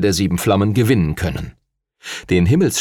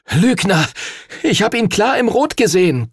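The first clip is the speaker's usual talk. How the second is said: much higher, breathless outrage; panting boy furious at the cheat; gasped accusation; 10 semitones higher than usual. Acted. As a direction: hurl the word liar at him. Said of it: "keuchte Henry".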